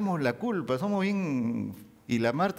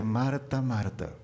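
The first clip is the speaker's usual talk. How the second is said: tender whisper; 4 semitones lower, much slower than usual. Acted. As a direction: call her name with love. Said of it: "Cristo Jesús le dice". (Jesús llamando a Marta con ternura, susurrando)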